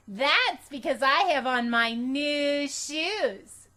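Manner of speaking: put-on high, slow, loud little girl; smug and pleased with herself; Junie B voice. A narrator's reading. Girl agreeing with teacher that she's cute, high and slow. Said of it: "I said".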